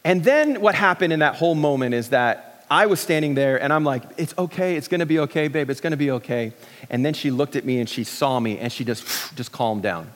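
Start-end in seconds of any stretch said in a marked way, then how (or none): 4.2-6.5 understated retold soothing; gently reassuring. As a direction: soothe gently, without pushing. Husband soothing panicking wife.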